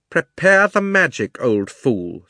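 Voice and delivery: high, loud imperious order; ringing witch voice, dropping on the insult; commanding witch. Acted. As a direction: bark a contemptuous order as the witch. Witch snaps orders at Andrew.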